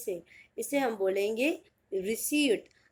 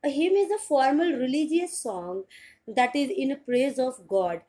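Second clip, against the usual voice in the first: slow, careful definition read; slow teaching read; 2 semitones higher, 3 dB louder, much slower than usual. Shown as a demonstration. Teacher reading the meaning to students, slow and clear. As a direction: spell it out slowly for learners. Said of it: "teacher reading definition".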